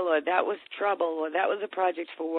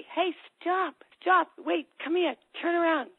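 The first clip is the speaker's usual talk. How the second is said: put-on higher, urgent call to stop the kid; calling him back; 10 semitones higher than usual. Parent calls the walking-away kid back, raised call.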